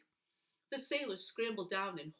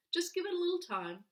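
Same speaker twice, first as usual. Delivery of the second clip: reassuring doctor; 10 semitones higher, 5 dB louder, faster than usual. Acted.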